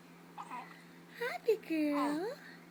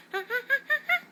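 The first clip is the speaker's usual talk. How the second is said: put-on louder, higher playful ha-ha for baby; mock laugh; 6 semitones higher, 6 dB louder, much faster than usual. Shown as a demonstration. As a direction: bounce the ha's up to the baby. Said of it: "Say ha, ha".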